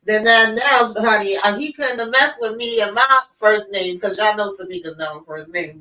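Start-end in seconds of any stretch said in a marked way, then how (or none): 0.0-1.4 incredulous sass. Retold or imitated. Mock incredulous retort.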